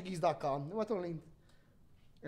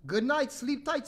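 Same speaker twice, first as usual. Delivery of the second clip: slightly higher, slow bedtime wish; parents' good night; 5 semitones higher, 3 dB louder than usual. Acted. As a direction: draw out a storybook good night.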